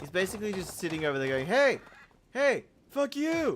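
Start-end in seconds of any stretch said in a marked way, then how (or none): 1.5-3.6 very high, slow, drawn-out chicken squawk. Speaker describing a chicken yelling at them: imitating a yelling chicken. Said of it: "Goddamn chicken yelling at me".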